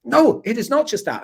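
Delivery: high, loud mock German protest; angry German fan. Retelling the angry Europe fan in a Glasgow bar, high mock German. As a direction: squeak it out like the offended German fan. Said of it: "he was like".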